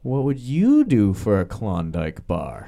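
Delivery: slow, drawn-out sales pitch line; mock recruiting pitch. To the bar guys, a slow cheesy ad pitch.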